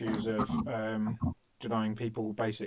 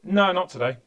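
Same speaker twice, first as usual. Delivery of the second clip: fake Latvian accent; 7 semitones higher, 7 dB louder than usual. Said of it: "And I said".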